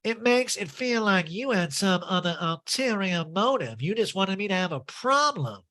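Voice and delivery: lightly voiced Erica; mock Erica. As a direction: play the wounded accuser.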